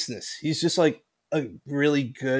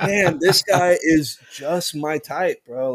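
slow, dreamy, half-joking crush voice; mock smitten; slower than usual. Host recalling his crush on a new hire, slow and mock-smitten. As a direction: savor it like a lovestruck fan. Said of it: "a fall in love moment for me".

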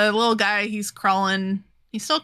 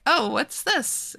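high, slow wondering; drawn-out high curiosity; curious Rickard; 6 semitones higher, slower than usual. Retold or imitated. Podcaster voicing Rickard spotting the sword, high and slow.

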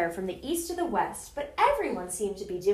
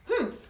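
humph; 8 semitones higher than usual. A narrator's reading. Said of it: "humphed a voice".

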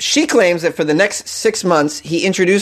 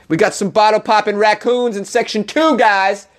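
mock club announcer, pitched up; 6 semitones higher than usual. Host hyping a club crowd, mock club announcer voice. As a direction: hype the crowd like a club MC, lightly. Announcer voice for bottle-popping raccoons.

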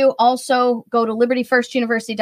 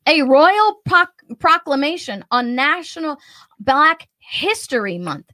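mock grandeur; 5 semitones higher than usual. Mocking royal proclamations.

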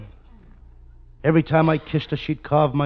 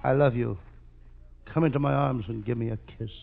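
mock romantic plea. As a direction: lay on the mock romance, hushed. Costello woos Viola.

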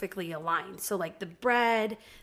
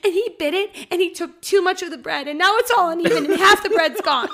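imitating a tearful kid; 8 semitones higher, 8 dB louder than usual. Daughter explaining through tears.

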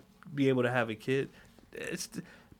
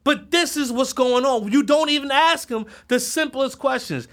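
ordinary delivery

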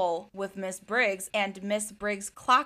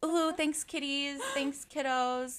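grateful principal; 2 semitones higher, 6 dB quieter than usual. Acted. Principal accepting dirty microwave, acted.

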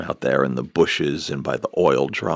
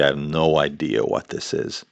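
ordinary delivery

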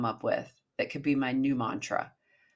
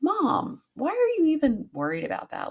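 put-on high, louder teen daughter voice; imitating daughter; 12 semitones higher, 3 dB louder than usual. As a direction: toss it off like an unimpressed teen, way up high. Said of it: "and she was like".

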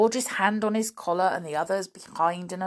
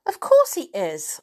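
proud whisper; 6 semitones higher, 6 dB louder than usual. Acted. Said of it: "said George".

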